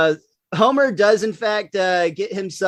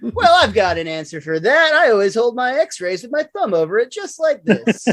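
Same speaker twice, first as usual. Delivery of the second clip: lightly voiced cartoon doctor, pitched up; a hint of a doctor character, rising higher toward the end; Doctor Hibbert; 5 semitones higher than usual. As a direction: play the doctor explaining away an oddity, higher than usual. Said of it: "Little Doctor Hibbert".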